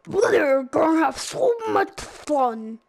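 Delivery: imitating a cartoon dog leader; cheery cartoon character impression; Fleagle voice. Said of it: "let's do Fleagle first".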